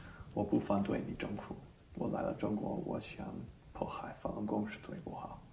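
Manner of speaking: soft, half-whispered plea; very quiet. Retold or imitated. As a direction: murmur it privately to each policeman. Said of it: "very quietly".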